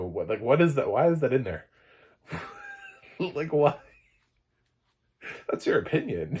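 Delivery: baffled, animated complaint; incredulous protest. Real, not acted. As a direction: object in laughing disbelief. Incredulous rant at narrator's opinion.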